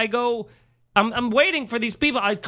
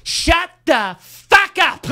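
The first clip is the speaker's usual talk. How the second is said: loud, high, drawn-out imitation shout; retold furious yell; 7 semitones higher, 7 dB louder, much slower than usual. Retelling the next comic yelling at hecklers from stage, furious shout. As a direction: bellow it slowly as an impression.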